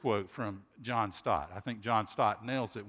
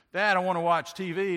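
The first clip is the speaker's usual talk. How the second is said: put-on child calling out; 7 semitones higher, 7 dB louder than usual. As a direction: kid calling down the stairs, high and loud.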